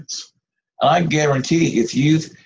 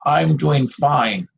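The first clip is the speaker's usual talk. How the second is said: slow dismissive fine; slower than usual. Retold or imitated. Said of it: "some say the fabulous four-letter word".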